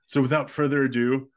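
a hint of a grand, pompous professor, slowing at the end; lightly hammed-up formal announcement; over the top professor. Host mimics the MIT professor, mildly pompous. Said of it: "so over the top here".

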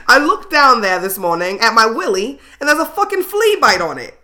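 put-on a half-hearted go at an Australian accent that slips; mock Australian accent, giggling through it; botched Crocodile Dundee accent. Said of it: "I gave you, like, Crocodile Dundee".

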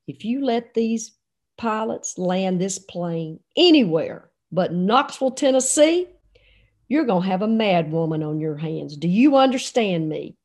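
retold stern threat, dropping low at the end; meaning business. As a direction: lay down the law, word by word. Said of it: "I knew when Pat meant business".

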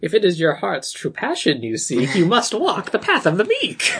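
hammed-up wizard pronouncement, lifting at the end; mock Gandalf. Co-host riffing on the art teacher's monologues, mock Gandalf. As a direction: lightly parody a sage handing down wisdom. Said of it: "weird Gandalf shit".

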